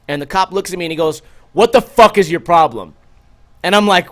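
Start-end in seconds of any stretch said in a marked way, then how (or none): 1.5-2.9 mock cop snapping, louder; retold cop's angry outburst; imitating angry cop. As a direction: bark it like a rude cop. Cop yelling at narrator.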